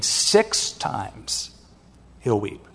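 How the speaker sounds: whispered, hushed emphasis. Real, not acted. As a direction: drop to a near whisper to drive it home.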